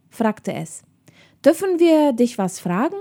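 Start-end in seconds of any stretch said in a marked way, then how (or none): 1.4-3.0 higher, polite friendly approach; trying to sound friendly. A narrator's reading. Nele approaches the girl on horseback, trying to be friendly. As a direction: ask with tentative friendliness. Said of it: "freundlich zu wirken".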